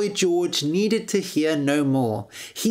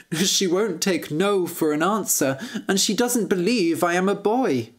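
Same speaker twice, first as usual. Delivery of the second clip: lightly voiced earnest prince; a hint of a captive prince telling his plight; lightly acted, earnest storybook prince; plaintive young prince; 3 semitones higher than usual.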